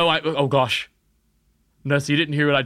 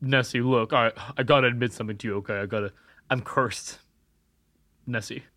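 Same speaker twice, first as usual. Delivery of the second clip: softer, lower spooky telling; hushed confession; 6 semitones lower, 7 dB quieter than usual. Acted. Cursed boy confessing to Nessie, hushed. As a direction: lean in and whisper your curse.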